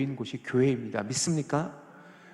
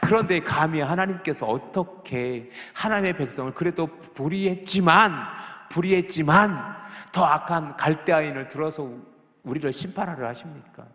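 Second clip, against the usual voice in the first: higher, louder indignant complaint to God; Habakkuk's protest; 4 semitones higher, 5 dB louder than usual. Retold or imitated. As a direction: cry out against God like the angry prophet. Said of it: "하박국은 또 이렇게 질문하는 거예요". (하나님께 분노하며 따지는 하박국)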